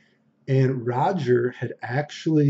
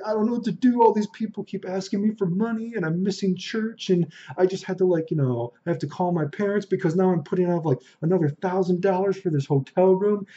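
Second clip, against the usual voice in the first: higher-pitched mock distress, no real sobs; imitated tearful complaint; 6 semitones higher than usual. Friend confides about being asked for money, mildly distressed imitation. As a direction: imitate an overwhelmed friend pleading. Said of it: "he's fucking crying".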